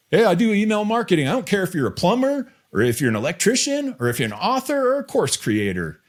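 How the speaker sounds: high, fast mock of his real accent; imitating Brad's offline accent. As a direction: tease a cohost with a hammed-up version of his offline voice. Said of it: "This is how Brad talks when we're offline".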